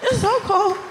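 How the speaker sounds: a second whining It's so cold; stress on so cold. Real, not acted. Repeating the cold complaint to the crowd, whiny. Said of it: "repeated complaint".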